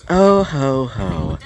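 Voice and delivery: spoken chuckle, dropping sharply in pitch; lightly acted knowing laugh; mock "oh ho ho" laugh. Ibuki Doji making her entrance, knowing chuckle.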